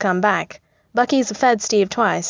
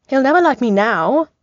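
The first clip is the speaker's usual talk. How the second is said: higher, louder call after someone leaving; yelling; 6 semitones higher, 4 dB louder than usual. A narrator's reading. Tony calling after Bucky as he leaves, mock-hurt yell. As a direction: yell it at a retreating back. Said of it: "Tony yells at Bucky's back".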